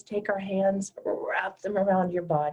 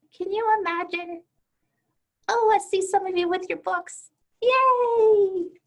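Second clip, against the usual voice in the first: much higher and louder squeal of joy; thrilled; 12 semitones higher, 7 dB louder than usual. Real, not acted. Teacher spotting students with their books, squealing with delight. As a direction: burst out delighted.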